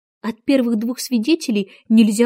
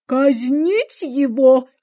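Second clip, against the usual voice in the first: Queen shouting; 2 semitones higher, much slower than usual. A narrator's reading. Queen shouting at the vanished Hatter, drawn-out and commanding. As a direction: bark out the execution order. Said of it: "крикнула королева".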